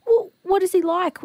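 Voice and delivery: high, tearful gentle question; smiling through tears. Retold or imitated. Helper asking elderly man about his grandson, tearful smile. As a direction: ask kindly while holding back tears. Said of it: "tears streaming down my face".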